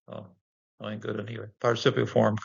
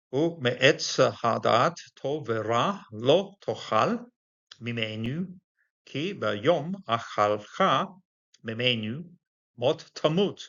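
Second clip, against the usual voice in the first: slow scripture reading; 2 semitones higher, slower than usual. Shown as a demonstration. Reads the Hebrew verse aloud.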